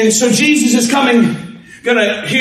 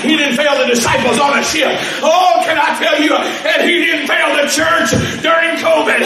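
full-force preaching; 2 semitones higher than usual. Acted. Preaching build to shouts.

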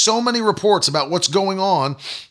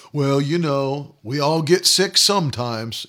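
mocking excuse-maker; 4 semitones lower than usual. Preacher imagining himself making a negative confession, mocking. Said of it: "I just don't talk like that".

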